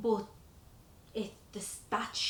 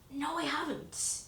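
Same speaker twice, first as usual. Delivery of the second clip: put-on denying accent change; 5 semitones higher, 4 dB quieter, slower than usual. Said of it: "I would literally change my voice".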